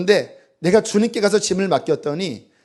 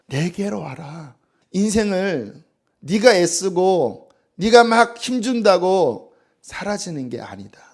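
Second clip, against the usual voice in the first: tender invitation; 3 semitones higher, slower than usual. Acted. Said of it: "주께서".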